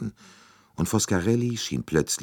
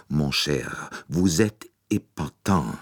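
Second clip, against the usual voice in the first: admiring exclamation; slower than usual. Acted. Bouc praising Poirot's guess, delighted. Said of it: "rief er".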